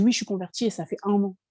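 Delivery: fast, defiant answer to her mother; talking back rudely. Retold or imitated. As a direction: snap it back at mom quickly. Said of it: "Je lui ai mal parlé".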